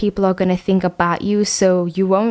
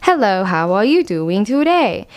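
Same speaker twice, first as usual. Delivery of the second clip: lilting up-and-down hello; sing-song greeting. Shown as a demonstration. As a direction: pitch swooping up and down, a little slow. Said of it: "it goes up and down, up and down".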